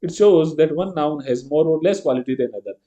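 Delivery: very slow, word by word; slow definition reading. Shown as a demonstration. Teacher reading the rule to the class, slow. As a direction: dictate the definition slowly.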